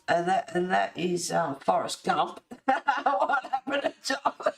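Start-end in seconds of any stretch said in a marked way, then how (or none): 3.0-4.5 laughing. Real, not acted. Giggling at chat jokes.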